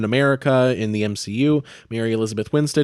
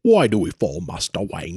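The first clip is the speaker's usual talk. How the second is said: movie quote voice; 4 semitones lower than usual. Retold or imitated. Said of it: "Batman movie quote".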